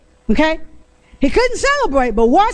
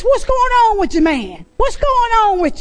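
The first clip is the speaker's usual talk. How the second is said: higher, concerned father's questioning; father questioning son; 5 semitones higher than usual. Acted. Father asking his sulking son what's wrong. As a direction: ask like a worried dad.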